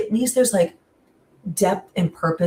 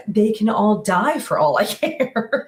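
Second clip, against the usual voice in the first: higher, exasperated, breaking into a laugh; laughing dismissal; 4 semitones higher than usual. Retold or imitated. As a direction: write them all off, laughing near the end. Mock-callous verdict, breaking into laughter.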